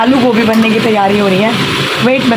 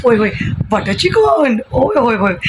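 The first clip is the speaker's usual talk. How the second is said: delighted cry; slower than usual. Retold or imitated. Family delighted by butter chicken.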